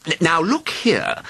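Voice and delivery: nervous. A narrator's reading. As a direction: falter as you begin. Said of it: "began nervously".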